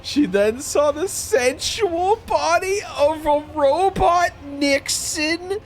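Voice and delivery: trying to read aloud while crying with laughter; real laugh-crying; reading through laughter. Real, not acted. Reading story text through laughter.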